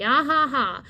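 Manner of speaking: fake, spelt-out laugh; mock laughter. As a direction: imitate their laughing sarcastically. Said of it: "And then they exchange laughs".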